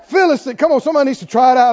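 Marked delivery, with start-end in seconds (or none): 0.0-0.6 slow, scornful "Uncircumcised Philistine"; contemptuous sneer. Shown as a demonstration. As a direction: look down your nose as you say "Uncircumcised Philistine". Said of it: "You gotta look down your nose when you say it".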